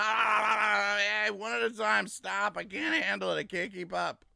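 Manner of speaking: high, loud, flustered mock of a senator stammering; mocking Schumer. Mocking Schumer as he stammers, high and loud. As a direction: whine it out like he's overwhelmed. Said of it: "He's like".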